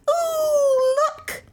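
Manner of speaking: very high, drawn-out squeal of delight; high-pitched fawning coo; gushing admirer. A narrator's reading. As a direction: squeal it, then drop away. Fat woman gushes over the dog.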